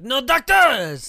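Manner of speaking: loud, high, drawn-out mock-angry yell; mad outburst. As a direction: bellow a slow, furious refusal, hammed-up. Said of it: "he gets so mad".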